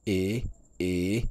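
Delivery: E rising, then E dipping and rising; two long gliding E sounds; second and third tones. Shown as a demonstration. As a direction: glide up on E, then dip and lift it. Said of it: "le deuxième".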